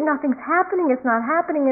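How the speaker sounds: mildly exasperated mock complaint; frustrated. Cartoon boy getting nothing from the sky, mild mock frustration. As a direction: voice a touch of rising frustration, retold. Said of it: "he's getting really frustrated".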